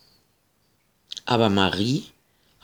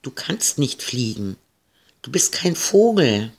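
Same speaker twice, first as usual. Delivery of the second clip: firm. Acted. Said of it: "Ida war energisch".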